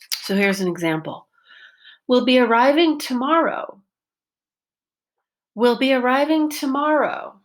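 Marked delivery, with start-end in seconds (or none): 2.1-3.8 ARRIVING lifted high then falling; focus pitch change. Shown as a demonstration. Teacher modelling focus word arriving with rise-fall. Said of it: "My voice went up and then down". 5.6-7.4 ARRIVING lifted high then falling; focus pitch change. Shown as a demonstration. Teacher repeating focus word arriving with rise-fall. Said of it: "My voice went up and then down".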